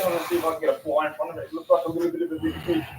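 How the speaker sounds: quietly, so as not to spook the fish; hushed and quick. Real, not acted. Angler sneaking up on a fish, hushed voice. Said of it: "Oh, I'm gonna shut up".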